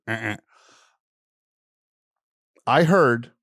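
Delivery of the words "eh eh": harsh error buzz. Retold or imitated. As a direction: imitate a rejecting beep.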